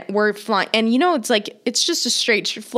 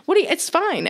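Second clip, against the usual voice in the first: breezy mom; 10 semitones higher than usual. Retold or imitated. Mom voiced dismissing worry.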